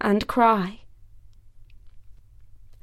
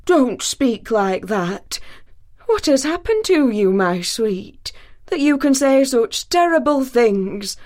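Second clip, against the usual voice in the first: tenderly; 3 semitones higher than usual. Acted. Thor tenderly comforts his weeping wife.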